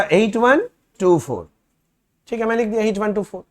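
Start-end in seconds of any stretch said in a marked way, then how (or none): 0.0-1.5 each digit spaced out slowly; slow dictation. Shown as a demonstration. Teacher dictating the balance to students, slow and spaced. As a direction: dictate the number slowly so they can write it. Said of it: "कितना था?".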